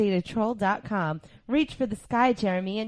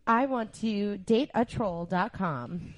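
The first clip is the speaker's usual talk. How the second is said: slow sexy slogan; slower than usual. Acted. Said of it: "sexy voice".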